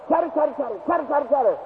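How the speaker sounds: chattering words standing in for squirrel noise; pine squirrel chatter. Retold or imitated. Preacher mimics a pine squirrel on a stump, chattering. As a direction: imitate a squirrel's rapid chatter. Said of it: "that kind of a noise".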